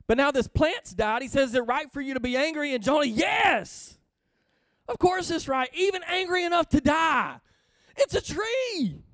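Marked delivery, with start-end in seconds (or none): 1.5-2.7 fast, forceful repeat of the question; God pressing Jonah. Acted. God's question voiced. 3.1-9.0 higher, whiny indignant shout; mock-angry Jonah snapping back; petulant Jonah. Jonah voiced answering God.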